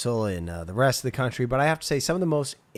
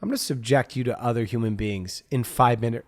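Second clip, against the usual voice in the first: menacing deity voice; 4 dB louder than usual. Retold or imitated. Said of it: "God and said".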